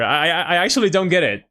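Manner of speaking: English with a Mexican Spanish accent; no American accent, Mexican-accented English. Shown as a demonstration. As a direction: let the Mexican accent through. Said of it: "turn off my accent".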